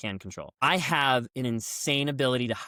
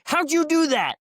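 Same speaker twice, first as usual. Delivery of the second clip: much higher, loud astonished question; mock amazed officer; 14 semitones higher, 6 dB louder than usual. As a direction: sound genuinely floored. Petty officer amazed at bed.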